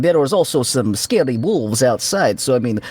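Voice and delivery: trainer persona. Acted. Reassuring Pa about weapons and scary wolves, mildly authoritative bluff. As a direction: justify it earnestly in the borrowed trainer role.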